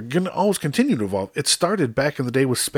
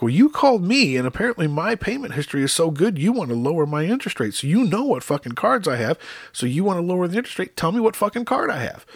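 high-pitched indignant comeback; indignant challenge; 7 semitones higher, 3 dB louder, faster than usual. Retold or imitated. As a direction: argue back high and insistent, calling the caller's bluff. Acted argument with phone scammer.

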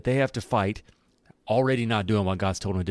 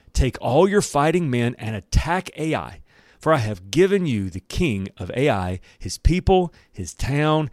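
scripture read as a battle speech; deliberate, emphatic commander's address, lightly acted; rallying the troops. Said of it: "imagine he is rallying the troops".

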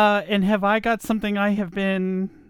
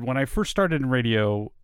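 deep male radio voice; 4 semitones lower than usual. Shown as a demonstration. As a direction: drop into a man's voice. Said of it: "it's so weird me doing this in this voice".

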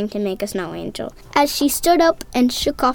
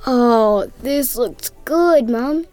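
delighted; 2 semitones lower, much slower than usual. Acted. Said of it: "with utter delight".

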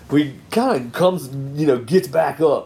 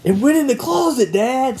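put-on higher, eager child's voice; little girl voice; 13 semitones higher than usual. Daughter telling dad where the mouse went, in a high little voice. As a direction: lightly play the eager daughter.

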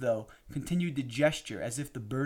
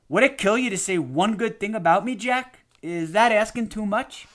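angry outburst, loud and much higher; raised voice; 8 semitones higher, 6 dB louder than usual. A narrator's reading. Drunk husband confronts the grandfather at dinner, raised voice. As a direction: raise your voice in indignant demand. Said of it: "raised his voice".

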